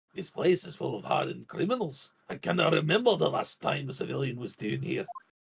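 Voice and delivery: put-on Scottish accent. Voicing a game character as a judge: Scottish judge voice. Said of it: "I'll try to do a Scottish judge voice".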